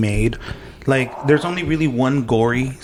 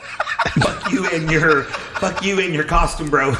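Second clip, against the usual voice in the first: laughing; slower than usual. Pretend. Laughing mock rant.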